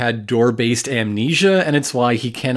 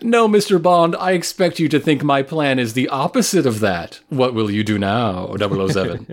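villain monologue. Pretend. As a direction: gloat like a cartoon supervillain. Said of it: "every villain monologue".

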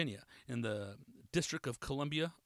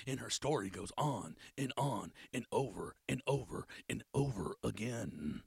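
mocking nagging-woman voice; 5 semitones lower, 5 dB quieter than usual. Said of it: "Shout out to Pablo for that voice".

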